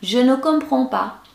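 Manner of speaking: high-pitched, helpless plea; put-on pitiful helplessness; pleading. Shown as a demonstration. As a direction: say it with a pitiful begging look. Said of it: "Dengan muka memelas lagi".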